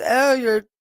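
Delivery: slow, drawn-out mocking imitation; mock disgusted heckler; mock critic. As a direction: imitate a rude guy, dragging out the words. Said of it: "one guy goes".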